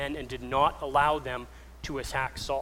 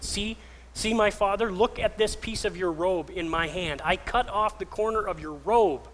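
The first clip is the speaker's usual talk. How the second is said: raised, impassioned appeal; calling out; 3 semitones higher, 4 dB louder than usual. Retold or imitated. David to Saul outside the cave, calling out in protest. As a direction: plead your innocence across a distance, pitch lifted. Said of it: "and calls out".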